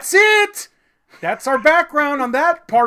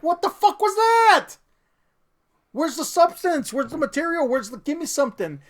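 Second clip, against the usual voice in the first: exasperated outcry; 8 semitones higher than usual. Retold or imitated. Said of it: "And you're like".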